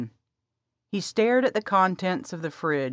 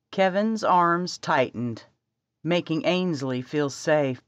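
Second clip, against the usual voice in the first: ordinary talk, nothing marked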